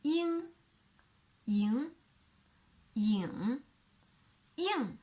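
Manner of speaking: "ying" said through the four tones with a velar ng; "ying" in each tone; four tones demo. Shown as a demonstration. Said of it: "the velar nasal".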